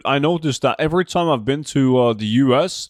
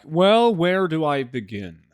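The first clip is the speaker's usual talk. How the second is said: mock awkward; 3 semitones higher, slower than usual. Streamer answers a casual greeting with a life story, mock awkward. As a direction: open like a long confession is coming. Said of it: "try to make it awkward".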